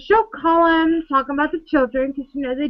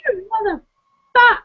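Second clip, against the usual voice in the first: high mock outrage; 9 semitones higher than usual. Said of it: "and I'm just like".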